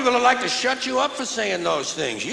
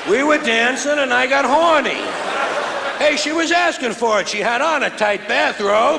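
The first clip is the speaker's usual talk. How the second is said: mock rapist excuse; 3 semitones higher, 3 dB louder than usual.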